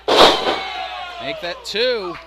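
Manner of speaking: shouted call, stretched out; excited shout. Real, not acted. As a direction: bellow it to the crowd. Commentator calls near fall.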